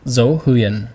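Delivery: huyền with a falling pitch. Shown as a demonstration. Teacher naming the Vietnamese tones, huyền falling. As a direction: say dâu huyền, letting huyền drop. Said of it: "falling tone".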